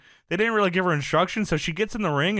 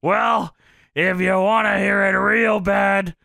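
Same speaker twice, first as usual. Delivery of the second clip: slow, louder mock promo challenge; Funk taunt; 3 semitones higher, 4 dB louder, slower than usual. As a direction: lean into the hell yes setup. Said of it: "Funk says".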